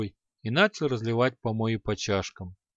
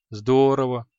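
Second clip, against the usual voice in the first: a glad exclamation, louder; delighted; 6 dB louder than usual. Acted. Шамшуддин rejoices at becoming Креол's blood brother, delighted. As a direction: bring out "Здорово" brightly. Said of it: "обрадовался Шамшуддин".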